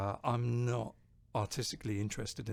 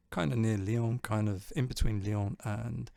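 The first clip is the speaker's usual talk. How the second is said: English speaker saying Lyon and Le Puy-en-Velay with a clumsy French accent; mild attempt at French pronunciation; terrible French accent; 4 dB louder than usual. Real, not acted. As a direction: try the French place names and miss. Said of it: "sorry for my terrible French accent".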